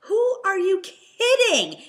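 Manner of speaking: loud, slow scoffing outrage; indignant outburst. Real, not acted. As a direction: throw it back in disbelief.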